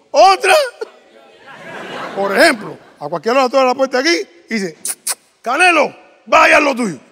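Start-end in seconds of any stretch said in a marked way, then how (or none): 5.4-7.0 calling out. Acted. Owner sends the dog out.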